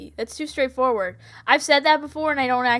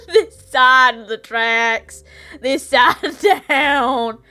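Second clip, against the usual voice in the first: dramatic drawl; 4 dB louder, slower than usual. Pretend.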